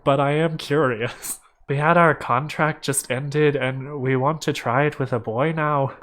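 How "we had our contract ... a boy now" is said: put-on Irish accent. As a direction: read it as an Irishman, lightly. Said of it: "I'm gonna stop the Irish accent".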